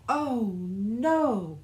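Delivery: high, loud cry of alarm; frightened cry. Acted. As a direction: cry out, startled by the storm. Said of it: "cried Little Fox".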